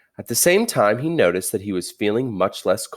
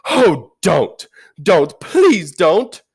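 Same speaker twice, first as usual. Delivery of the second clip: high, loud desperate pleading; shouted plea; 10 semitones higher, 8 dB louder, much slower than usual. Acted. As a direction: beg her with all you have. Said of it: "shouted Edmund".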